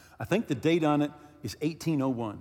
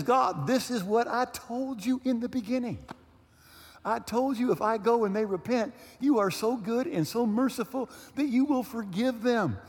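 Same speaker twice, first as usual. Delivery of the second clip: raised, exasperated complaint to God; mad at God; 6 semitones higher than usual. Retold or imitated. Jonah complaining to God, mildly angry. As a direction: plead bitterly to be killed. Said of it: "He's mad. He's so mad at God".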